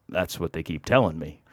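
low, soft deadpan dodge; subdued, noncommittal mumbled reply; sheepish deflection. Retold or imitated. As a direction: offer it quietly, admitting nothing. Sheepish answer to sceptic.

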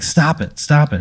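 restrained mock yelling; mock scream. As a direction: imitate someone screaming, held back. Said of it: "he just starts screaming".

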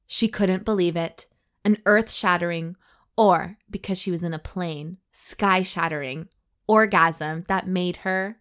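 measured audiobook-style reading; story narration. A narrator's reading. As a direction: read the racy tale out deliberately. Reads the story aloud.

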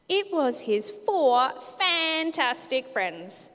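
lively, animated storybook read-aloud with character voices; children's story reading. Acted. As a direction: read it to the kids like a picture book. Reads Bible story to kids.

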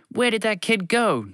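fed-up editor shouting; yelling boss. A narrator's reading. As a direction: yell it across the chaos. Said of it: "Geronimo Germson yelled".

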